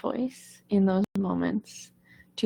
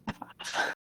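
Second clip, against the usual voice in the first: whispered F off; 11 dB quieter than usual. Shown as a demonstration. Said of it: "that's why I say".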